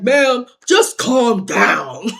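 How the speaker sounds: slow, mock soothing cop voice; imitating cop. Cop telling her to calm down, mock soothing. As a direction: talk her down like a patient officer. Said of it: "He was like".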